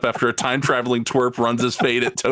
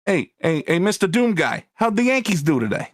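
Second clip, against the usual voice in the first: high eager henchman calling; old-timey flunky, pitched up; minion voice; 6 semitones higher than usual. Acted. Acting henchman asking boss.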